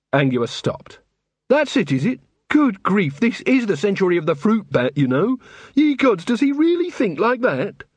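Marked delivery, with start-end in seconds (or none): 1.5-7.8 exasperated, pitched high and raised; indignant outburst at his prejudice. A narrator's reading. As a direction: Angua bristling at Vimes' attitude.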